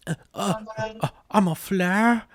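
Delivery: high, sputtering mock bewilderment; mock disbelief. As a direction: stammer it high, as if mock-offended. Acts out stunned hero's reply.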